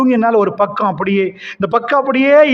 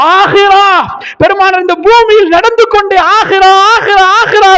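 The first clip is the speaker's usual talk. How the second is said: much higher, louder cry; fervent exclamation; 11 semitones higher, 5 dB louder than usual. Acted. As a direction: call it out with fervour. Prophet exclaiming the hereafter. (உரத்த உணர்ச்சிமிகு கூவல்)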